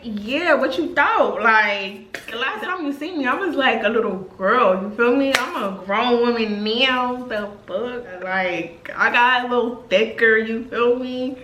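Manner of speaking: teasing grown-woman swagger; sassy retold boast; sassy bragging. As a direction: brag like you know you look good. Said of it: "And I'm like".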